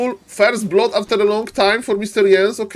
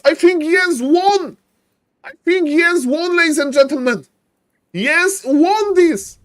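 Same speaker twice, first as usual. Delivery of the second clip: excited call; 5 semitones higher than usual. Real, not acted. Caster calling the winner.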